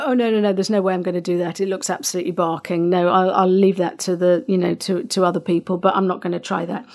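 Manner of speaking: fast, scoffing brush-off; quick dismissive scoff; dismissive, sceptical. Retold or imitated. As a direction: rattle off the refusal, mocking your old self. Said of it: "I used to go".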